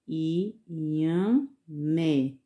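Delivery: inhamé drawn out slowly, stress on the last syllable mé. Shown as a demonstration. Teacher to pupils, sounding out the vegetable slowly. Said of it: "Bem devagarzinho".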